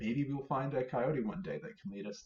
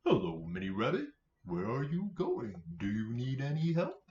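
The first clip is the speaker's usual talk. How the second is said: dog voice. Acted. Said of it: "Dog says".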